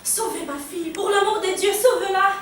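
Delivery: urgent plea rising in pitch; pleading mother. Acted. Mother begging the doctor to save her daughter, urgent and pleading. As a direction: beg for help, building as you go. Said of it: "Pique une crise".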